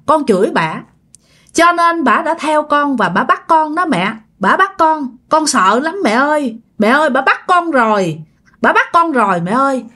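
lightly voiced terrified son crying to his mother; scared, crying son. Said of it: "vừa khóc vừa nói nha".

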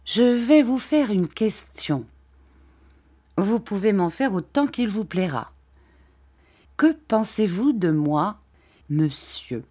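lightly voiced gentle old man, hesitant; timid old Mr Dick. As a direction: shyly ask permission, lightly voiced.

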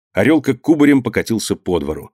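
ordinary delivery, nothing marked

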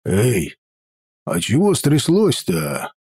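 easy, mild and casual; peaceful tone. Acted. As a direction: innocently ask what happened. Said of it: "самым что ни на есть мирным тоном".

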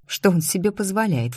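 ordinary delivery, nothing marked

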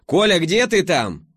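громко и медленно, высоко; зови громко, растягивая слова; громкий зов. A narrator's reading. Зовёт Колю с лестницы. (громкий зов)

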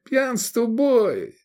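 high, slow monotone chant; droning. A narrator's reading. Hungover Edik reciting sobriety slogans, high drone. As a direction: drone the slogan on one note. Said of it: "бубнил Эдик".

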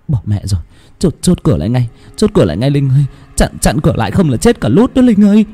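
mother urging her sister to bar the door; urgent panic. Acted.

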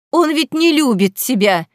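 heartfelt cry. A narrator's reading. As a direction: fling it at her from the heart. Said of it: "в сердцах крикнула Вера".

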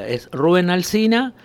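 "Rubén" as RU-ben, stress on first syllable; no accent on E. Shown as a demonstration. Guest insisting on his own name, "Rubén" said RU-ben. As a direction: keep the E of "Rubén" unstressed. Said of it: "no lleva acento".

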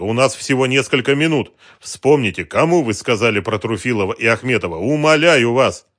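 loud, high, urgent plea, slowing at the end; urgent pleading. A narrator's reading. Detective pressing the witness for a name, urgent loud plea. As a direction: beg her to remember, pressing hard. Dronго urges Galina, time short.

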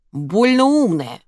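high, drawn-out angry jibe. A narrator's reading. Enraged customer snubbing a helpful stranger, angry. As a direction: stretch it out in rising irritation. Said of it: "окончательно разозлилась незнакомка".

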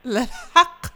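high, loud, through laughter; amused, laughing too hard to talk evenly. Real, not acted. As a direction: crack up while talking. Host cracks up at child's answer.

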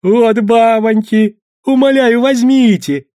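a groveling merchant pleading in falsetto; high thin plea to buy. Acted. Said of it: "тонким голосом просил хозяин".

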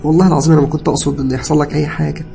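high, loud, distressed pleading; tearful confession. A narrator's reading. Cousin confessing prank to patient, tearful pleading. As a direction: confess guiltily, stumbling and upset. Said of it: "اتكلم ابن خالتي وهو بيعيط".

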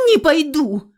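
put-on defiant girl refuses to go back; stubborn refusal. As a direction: dig your heels in and shout it. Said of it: "уперлась я".

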